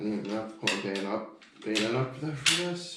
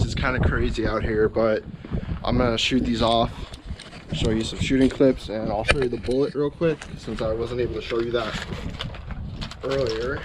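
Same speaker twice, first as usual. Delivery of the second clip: louder to beat the wind; raised voice outdoors; talking over wind; 5 dB louder than usual. Real, not acted. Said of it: "sorry about the wind noise".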